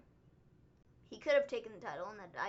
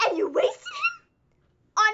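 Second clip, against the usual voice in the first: incredulous; 5 dB louder than usual. Real, not acted. Ranting at WWE.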